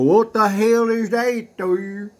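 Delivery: sudden high, loud "what the hell"; startled outburst. Real, not acted. Host spotting the dial marking, startled and loud. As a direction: blurt it out, caught off guard.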